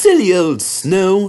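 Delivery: high, slow proud engine voice; boastful little engine. Acted. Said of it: "said Thomas".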